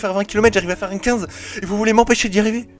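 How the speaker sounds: high, indignant exclamations; outraged disbelief. Retold or imitated. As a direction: protest in shocked outrage. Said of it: "j'étais en mode".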